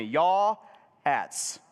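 "Yaw-ats" in two separated syllables, long YAW then ats; say-along pronunciation. Shown as a demonstration. Preacher leads congregation repeating the word, "Yaw-ats" stretched in two parts. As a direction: lead the room through a drawn-out "Yaw-ats". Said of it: "say that with me".

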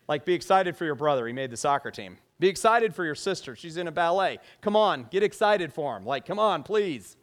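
loud, insistent coaxing; parent urging kids. Acted. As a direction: plead like an exasperated parent. Parent pleading with unenthusiastic kids.

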